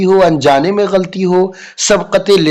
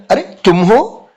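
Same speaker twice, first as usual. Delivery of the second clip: higher, slow surprised "अरे, तुम हो?"; surprised teacher; 4 semitones higher than usual. Retold or imitated. Teacher surprised to see Raju arrive late. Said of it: "ये बोलते हैं ना".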